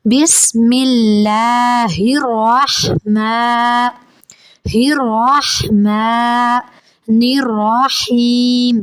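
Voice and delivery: drawn-out chanted basmala; slow recitation. Shown as a demonstration. Teacher recites the full basmala as a model. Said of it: "حلق کے درمیان والے حصہ سے".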